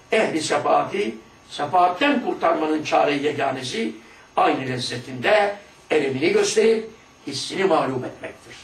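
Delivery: slow, measured recitation of the book; solemn text reading. Acted. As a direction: read it like a sacred text, drawn out. Reads the passage a third time.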